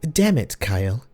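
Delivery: a touch of venom; spat. Acted. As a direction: snap his name in contempt. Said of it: "the voice spat".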